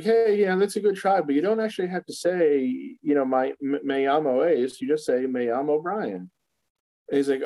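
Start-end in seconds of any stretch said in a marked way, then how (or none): 0.0-6.3 lightly voiced cartoon character; higher, friendly correction; quoted character voice. Voicing Family Guy character.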